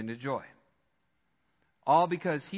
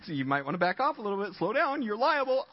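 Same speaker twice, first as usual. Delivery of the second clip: mock warning, escalating; 6 semitones higher, faster than usual. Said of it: "he went from, like".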